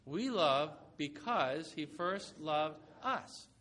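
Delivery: slow, word-by-word unison reading; slow recitation. Shown as a demonstration. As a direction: lead the congregation through it slowly. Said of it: "Can you say that with me?".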